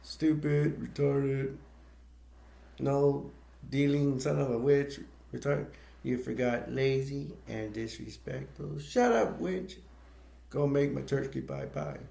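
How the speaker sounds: mock dad ranting insults; imitating abusive dad. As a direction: sneer it like a nasty father. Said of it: "John Bender imitates his dad".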